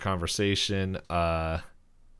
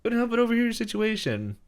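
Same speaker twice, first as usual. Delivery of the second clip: put-on much higher, creaky old hillbilly voice; Old Man McGucket; 13 semitones higher, 3 dB louder than usual. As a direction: play a wild old coot introducing himself. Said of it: "He's like".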